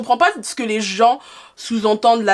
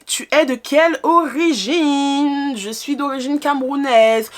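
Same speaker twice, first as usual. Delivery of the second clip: higher, slow, stretched-out words; drawn-out question and answer; 5 semitones higher, slower than usual. Acted. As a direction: read it out slowly, stretching each ending. Lit et répond à une question.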